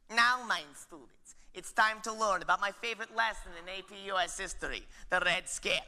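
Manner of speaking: strict teacher voice. Acted. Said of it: "Miss Hoffenpfeffer von Schnitzel McCarthy".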